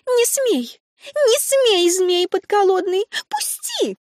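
очень высоко, визгливо вскрикивая; вырываться и кричать на короля; истеричный вскрик. A narrator's reading. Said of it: "сестрица вскрикнула". (визгливый вскрик)

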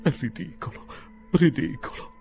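loud, high-pitched indignation; indignant protest. A narrator's reading. Pickwick denounces the lawyers' plot, indignantly. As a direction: protest the accusation hotly.

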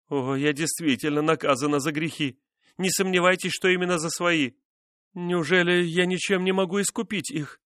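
high, anguished pleading; despairing plea. A narrator's reading. Wife begging husband to let her atone, despairing.

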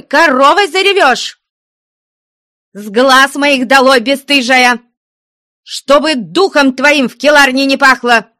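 nun raging at Marya; furious shout. Acted. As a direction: rage and drive her out.

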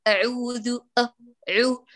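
أعوذ broken into أ and عو; slow the vowels of أعوذ apart; isolating the fault. Shown as a demonstration. Teacher isolates the blurred vowel in أعوذ. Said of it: "سامعين؟".

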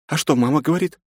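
high woman's voice asking gently; a caring aunt asking; curious woman. A narrator's reading. Aunt asks Nastya about mother.

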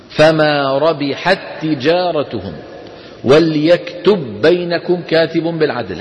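slow chanted recitation with idgham; slow Quran recitation. Shown as a demonstration. Teacher reciting examples slowly for the class. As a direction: recite it slowly, tajwid style. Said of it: "هذا بإجماع".

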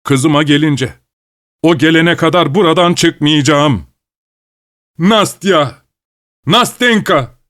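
high, frantic calling out; frantic shouting. Acted. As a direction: call for her like a madman. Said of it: "bağırıyor ve çıldırmış gibi".

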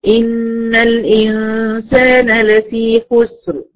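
slow measured tajweed recitation; Quran recitation. Shown as a demonstration. Teacher recites the verse slowly for the class. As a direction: chant the verse slowly, stopping on خسر. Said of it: "عند الوقف".

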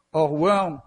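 "orworm" drawn out very slowly in a foreign accent; foreign word attempt. Shown as a demonstration. Pastor slowly repeats the foreign expression for the congregation, accented and slow. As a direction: stretch out "orworm" slowly, as a word you don't own. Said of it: "Excusez-moi l'accent".

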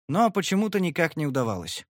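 ordinary delivery

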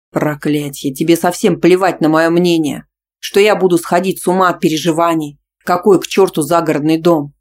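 loud exasperated outburst; furious. Acted. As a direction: vent his fury. Boyfriend shouts back.

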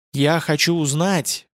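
медленно, с запинками; неуверенно выдавить слова; запинаясь. Acted. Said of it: "проговорил Ютланд, запинаясь". (говорит сбивчиво и медленно)

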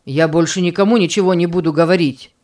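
fast, bitter retort; bitter, hurt. Acted. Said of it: "Горечь и обида звучала в голосе Джима". (быстро, с горечью и обидой)

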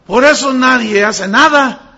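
slow, emphatic preacher's outburst; loud exclamation. Real, not acted. Preacher condemns step-by-step healing methods, loud exasperated exclamation. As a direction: punch every word out loud and slow.

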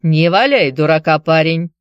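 stern. Acted. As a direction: warn him sternly, Irish lilt. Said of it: "сказал он сурово".

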